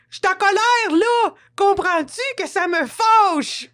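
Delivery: half-laughing high-pitched mock anger; high naming of anger. Shown as a demonstration. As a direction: declare the anger in a high squeak. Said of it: "ma voix devient un peu aiguë".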